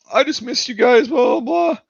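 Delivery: high-pitched mock pleading; mock cheery excuse. Kid covering up to parents why he's home, high mock voice. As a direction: pipe up with a put-on high voice.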